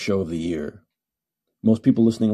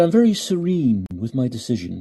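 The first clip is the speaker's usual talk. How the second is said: calm serial killer. Retold or imitated. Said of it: "a serial killer talks like that?".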